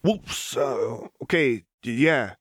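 high, stammering alarm; startled Echo. Acted. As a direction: back off fast, flustered. Gun under Echo's chin.

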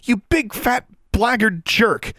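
high, loud furious tirade; outraged rant, pitched very high; fierce yelling. A narrator's reading. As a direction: rail at a bossy brother. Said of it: "she yelled fiercely".

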